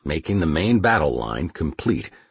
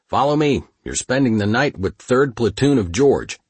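shouting over tank engine; 4 semitones higher than usual. Acted. Guiding tanks over engine noise.

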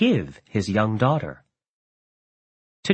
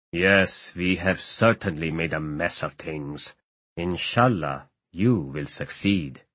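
put-on low, soft, sorrowful old man; sad; 6 semitones lower, 4 dB quieter than usual. A narrator's reading. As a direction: sigh out the resignation. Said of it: "Fazl Reshat Pasha said sadly".

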